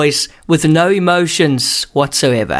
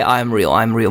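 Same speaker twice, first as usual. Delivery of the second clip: a little lower, like a typed robot line; deadpan it like a machine; mock computer voice; 5 semitones lower than usual. Host mocks the guest as a computer, low flat robot voice. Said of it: "typed that into the computer for it to say".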